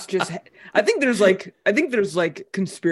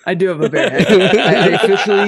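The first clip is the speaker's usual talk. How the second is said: laughing; 7 dB louder than usual. Real, not acted. Laughing admission of bear head.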